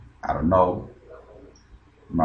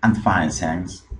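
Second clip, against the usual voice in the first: slow model line; much slower than usual. Shown as a demonstration. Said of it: "Jason responde".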